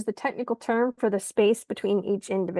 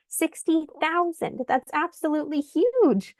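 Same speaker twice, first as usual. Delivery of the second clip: amazed emphasis; 6 semitones higher than usual. Real, not acted. Stressing a striking statistic.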